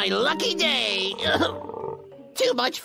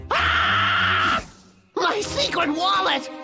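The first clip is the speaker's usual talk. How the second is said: alarmed gasp; 5 semitones higher, much slower than usual. Acted. Discovers wallet.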